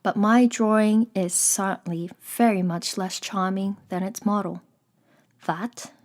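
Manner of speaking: measured storybook reading with pauses; composed audiobook-style narrator; story narration. A narrator's reading. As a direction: read it aloud evenly, phrase by phrase. Reads the story aloud.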